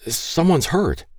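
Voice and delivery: high, hesitant start; lightly acted rattled boy; stuttered. A narrator's reading. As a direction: falter slightly, pitched well up. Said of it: "Troy stuttered".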